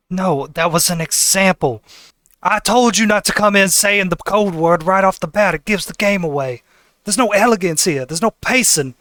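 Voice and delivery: lightly peeved butler correcting a guest; mild scolding. Acted. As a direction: chide him for having no elegance.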